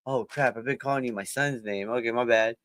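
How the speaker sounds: sheepish realization. Retold or imitated. Realizing he used son's name.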